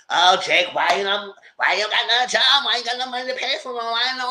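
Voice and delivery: mock whining. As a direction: imitate a girlfriend wailing at her man. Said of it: "doing something in a different tune".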